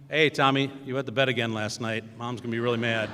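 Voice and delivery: taunting. Retold or imitated. Taunting little brother in hallway.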